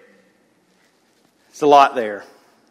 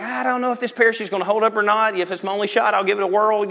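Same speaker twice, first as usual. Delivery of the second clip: doubtful; 5 semitones higher, faster than usual. Acted. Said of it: "majority of us would be like".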